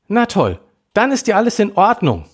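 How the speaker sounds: hohe, gereizte Mädchenstimme, bissig; fauchend. Acted. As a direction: zischt die Worte spitz heraus. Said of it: "fauchte Melanie". (gereizte Schwester faucht ihre Freundin an, hoch und bissig)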